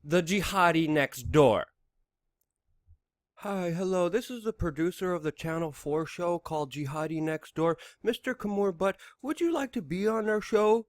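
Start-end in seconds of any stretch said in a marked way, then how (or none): 3.4-10.8 mock producer call. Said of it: "I'm horrible at accents".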